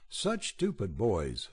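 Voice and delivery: scolding. Acted. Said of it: "scolded the priest".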